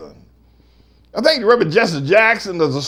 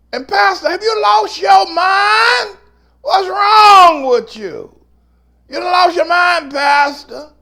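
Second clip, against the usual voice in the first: outraged congregant; 6 semitones higher than usual. Retold or imitated. Church member berating Pastor Manning, building to an outraged shout. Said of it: "You say".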